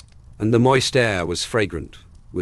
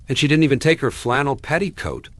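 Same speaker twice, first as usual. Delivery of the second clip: lamenting; 7 semitones higher, 3 dB louder, faster than usual. A narrator's reading. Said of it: "lamented Cousin Stickles".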